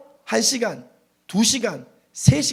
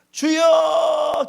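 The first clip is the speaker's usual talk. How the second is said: high, loud, long-held call; imitated daughter's prayer cry; 8 semitones higher, 6 dB louder, much slower than usual. Daughter praying behind her father, loud drawn-out cry. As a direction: draw it out high in mimicked prayer. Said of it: "우리 딸이 기도를 시작합니다".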